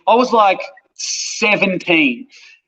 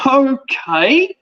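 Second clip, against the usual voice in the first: taken-aback okay; 4 semitones higher than usual. Retold or imitated. Panel taken aback by his answer.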